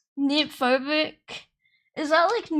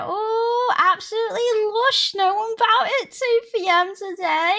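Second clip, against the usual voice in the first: lightly put-on, raised voice; a hint of a pleased local character; acted job-centre character; 4 semitones higher than usual. Playing herself leaving the job centre, lightly put-on voice. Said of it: "And I'm on the off and I'm like".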